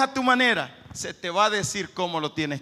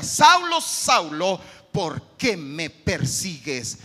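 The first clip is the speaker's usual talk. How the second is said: heavenly voice calling; 4 semitones lower, 3 dB louder, much slower than usual. Acted. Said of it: "oyó una voz que le decía".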